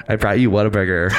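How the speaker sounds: laughing, half-shouted friend voice; Shrew impression. Shown as a demonstration. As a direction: do Shrew's line again on request. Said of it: "Carbon copy".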